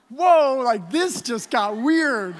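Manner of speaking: whoa, then laughing through the rest; amused shock. Retold or imitated. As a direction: caught off guard and chuckling. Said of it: "I'm like".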